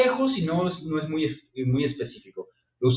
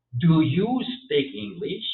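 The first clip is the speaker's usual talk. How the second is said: slow demo question; 2 semitones higher, much slower than usual. Shown as a demonstration. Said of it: "Y ahí ya es pregunta".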